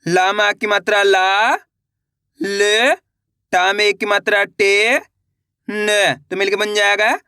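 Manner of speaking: slow, separate syllables, then the word drawn out; patient teacher dictating syllables; syllable by syllable reading. Shown as a demonstration. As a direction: spell each sound for beginners, then blend. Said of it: "एक बार फिर से देखिए".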